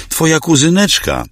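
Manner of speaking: wyraźnie wyżej, lekko drżąco; ciche, błagalne przypomnienie więzi; drżący głos. Acted. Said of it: "powiedziała drżącym głosem". (Ruzia błaga kuzyna, lekko drżącym głosem)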